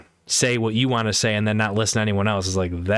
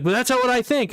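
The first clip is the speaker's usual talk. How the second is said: higher, insistent imitation; mock stubborn friend; 12 semitones higher than usual. Quoting the friend's stubborn defence, higher mocking voice. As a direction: whine it back as his stubborn line.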